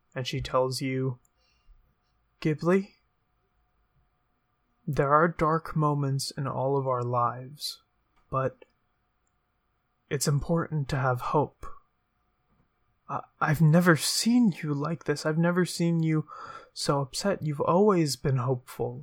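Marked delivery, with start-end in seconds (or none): 2.4-19.0 quiet, almost whispered. Evie speaks to an upset Ghibli, barely above a whisper. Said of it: "You can see that she doesn't look as put together as she normally does. Normally, she's very confident. Her walk is that of someone in power who knows what they can do, who's incredibly strong. / You".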